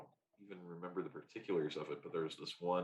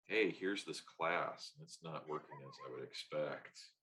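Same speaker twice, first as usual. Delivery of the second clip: dull delivery; 4 semitones lower than usual. Shown as a demonstration. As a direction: read it like a dull lecture. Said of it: "when you deliver it like that".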